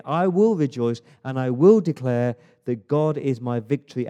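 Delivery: loud, emphatic declaration of praise; rousing preacher's declaration; full-force preaching. Real, not acted. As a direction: proclaim it boldly to the congregation.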